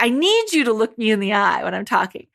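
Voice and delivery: rushed, with a punch on "need"; substituting need. Retold or imitated. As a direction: hurry through it after stressing "need". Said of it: "instead they'll be like".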